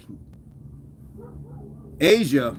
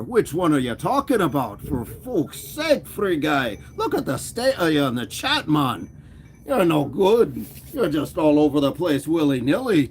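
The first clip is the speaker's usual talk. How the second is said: put-on playful made-up pirate-like accent. Streamer jokingly scolding Free Guy in the chat, pirate-like accent. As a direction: scold in a mock pirate-like brogue. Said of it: "Sounds like a pirate".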